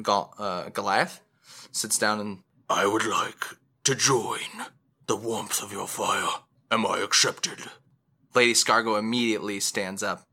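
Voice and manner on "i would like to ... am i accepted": measured, put-on giant stranger's voice; tall traveler. Tall traveler asking to join a fireside, solemn. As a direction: ask formally, in careful pieces. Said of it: "a traveler, a tall, like, twelve-footed traveler".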